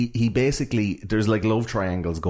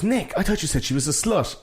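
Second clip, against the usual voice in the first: mock teasing; 10 semitones higher than usual. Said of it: "everyone goes".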